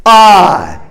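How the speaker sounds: slow, firm, confident declaration; with confidence. Shown as a demonstration. Congregation's third take, slow and confident. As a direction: own every word of it. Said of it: "let's say it again with confidence".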